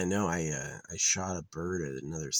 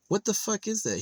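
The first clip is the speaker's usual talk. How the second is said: much higher, louder shocked squeal; startled high squeal; 5 dB louder than usual. Real, not acted. Streamer shocked by the bird's weird tuft, high squeal. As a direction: squeal it out in disbelief.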